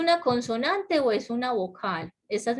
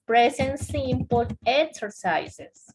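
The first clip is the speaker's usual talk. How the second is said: slow dictation; 4 semitones higher, slower than usual. Shown as a demonstration. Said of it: "que fue lo que vimos".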